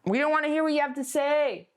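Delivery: teasing big brother voice; brother brushing her off. Retold or imitated. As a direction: talk down to the little sister. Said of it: "he would always do that thing".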